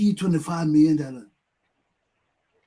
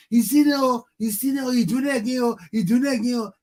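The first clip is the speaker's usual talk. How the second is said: higher, half-shouted sing-song complaint; mock yelling; 4 semitones higher than usual. Bystanders complaining about the thief, higher mock yell. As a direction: moan it like a bystander who won't act. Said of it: "they're yelling".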